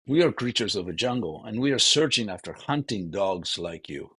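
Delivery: lightly sarcastic retort to the demon; a dry, ironic jab, mildly voiced. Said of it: "Krishna is also gonna be sarcastic and ironic".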